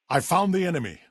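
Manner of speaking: high-pitched sighting call; alert call. Acted. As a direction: alert the squad. Alerting others to the enemy.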